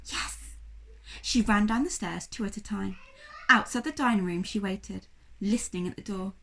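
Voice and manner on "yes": breathy, voiceless whisper of delight. A narrator's reading. Sophie to herself as an idea comes, whispered. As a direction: hush it like a secret found. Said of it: "She whispered".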